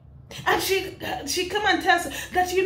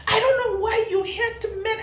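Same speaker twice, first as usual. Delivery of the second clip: laugh-cry through the question; half laughing, half wailing at her; laughing cry of disbelief; 6 semitones higher than usual. Real, not acted.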